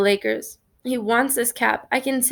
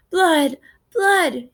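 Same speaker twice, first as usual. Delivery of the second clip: put-on high, loud child's shriek rising; frightened yell; 7 semitones higher, 4 dB louder than usual. A narrator's reading. Little brother to James, yelling at the sight of blood. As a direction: yell it the moment he sees his knees. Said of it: "he yells".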